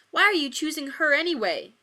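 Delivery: high, loud, hurt and angry demand; angry hurt outburst at a lover; hurt anger. Acted. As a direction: lash out from a wounded heart. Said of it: "His tone was filled with rising anger, but most of all hurt".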